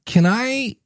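a slow, hesitant "can I"; timid question. Retold or imitated. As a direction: ask it like an unsure beginner. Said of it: "the person that's like".

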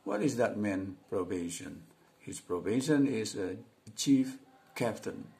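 slow, careful reading aloud; model reading. Shown as a demonstration. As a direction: read each line clearly for learners. Membaca dialog contoh. (membaca pelan dan jelas untuk murid)

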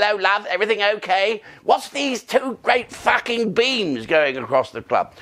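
imitating the put-out owner George; George's voice. Owner George moaning to the singer about beams. Retelling George's complaint at club.

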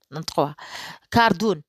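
كاردون pronounced with the d clearly heard; teacher models كاردون with a clear d; d sounded. Shown as a demonstration. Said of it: "في هذه الحالة كاردون". (المعلم ينطق كاردون بالدال واضحة)

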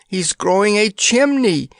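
distracted groan. Prince telling Eartha, high and dismayed. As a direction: moan it, beside himself. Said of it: "groaned Tatters distractedly".

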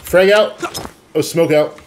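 high, loud callout; grenade warning yell. Real, not acted. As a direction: shout the throw to the team. Throwing grenades in firefight.

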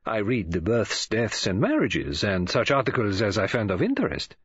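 Poirot, dignified. Acted. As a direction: answer with measured, precise dignity.

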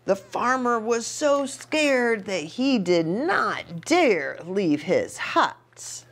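put-on reading to children. Reads story to children.

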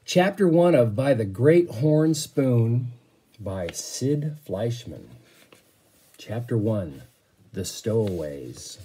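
slow, deliberate title announcement; storyteller opening a new book; reading a title aloud. Acted. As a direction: present the book and chapter to the class.

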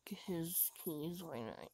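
unvoiced whisper. Real, not acted. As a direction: whisper it to yourself.

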